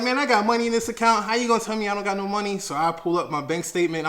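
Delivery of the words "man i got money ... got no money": much higher, louder, fast outrage; indignant. Retold or imitated. Arguing with the clerk, higher, fast and loud. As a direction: demand to know how he dares. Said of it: "super defensive".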